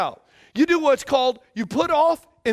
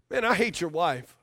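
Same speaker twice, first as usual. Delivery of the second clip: buddy's remark; 7 semitones lower, 5 dB quieter than usual. Retold or imitated. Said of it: "a buddy initially kicked it off".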